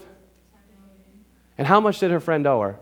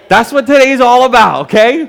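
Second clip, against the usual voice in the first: laughing; 7 semitones higher, 11 dB louder than usual. Real, not acted. Laughing after congregation stares.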